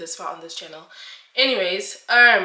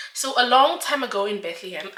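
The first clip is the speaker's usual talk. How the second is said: laughing. Real, not acted. Jokey storybook opening, laughing.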